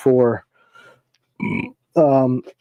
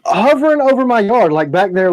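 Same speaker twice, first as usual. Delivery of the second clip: exasperated rant; 7 semitones higher than usual. Pretend. Ranting at the drone neighbor.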